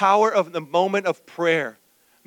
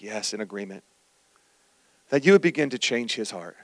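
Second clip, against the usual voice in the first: mock meek agreement; 7 semitones lower, 5 dB quieter than usual. Mock agreeing with mom's prayer.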